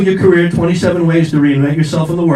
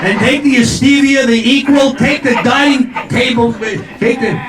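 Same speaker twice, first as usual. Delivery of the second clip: mock urgency; 4 semitones higher than usual. Acted husband urging wife to grab things.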